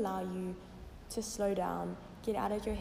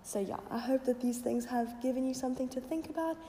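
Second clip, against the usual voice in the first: croaky voice. Real, not acted. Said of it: "my little bit of a croaky voice this morning".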